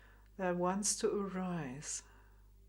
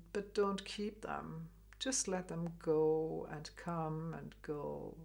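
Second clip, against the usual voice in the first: guided meditation. Acted. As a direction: guide them to let thoughts drift away. Meditation instruction, slow and soft.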